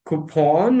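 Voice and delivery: "coupon" as koo-PAWN, long open ending; heard variant. Retold or imitated. Learner asks about a version she heard, variant pronunciation. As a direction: draw out the second syllable of "coupon" as pawn. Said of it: "but I heard, like, it's".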